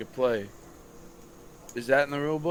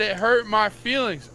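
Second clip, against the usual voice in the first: much higher, lightly mocking whine; mock whiny teammate; 7 semitones higher than usual. Mimicking the player complaining to the ref, mock whine. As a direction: poke fun at the player's complaint.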